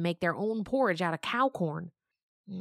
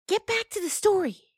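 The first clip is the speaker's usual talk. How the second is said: high, louder impatient push; 13 semitones higher, 6 dB louder than usual. Acted. Gotina urging Minerva on, high and impatient. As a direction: hurry the storyteller along. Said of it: "Gotina said impatiently".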